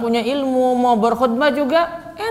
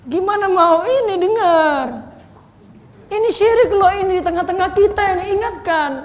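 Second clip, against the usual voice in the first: higher, hesitant pleading tone; uncertain, raised-pitch appeal to the congregation; pitched up a bit; 6 semitones higher than usual. Shown as a demonstration. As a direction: wheedle the warning instead of stating it. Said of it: "Nadanya agak tinggi dikit gitu".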